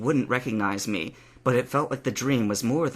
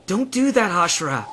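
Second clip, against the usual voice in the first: high, louder protest; groaned complaint; 7 semitones higher, 4 dB louder than usual. A narrator's reading. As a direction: complain with a raised pitch. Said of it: "he groaned".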